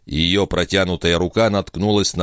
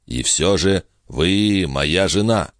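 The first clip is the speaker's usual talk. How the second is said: calm insistence; 2 semitones higher, slower than usual. Acted.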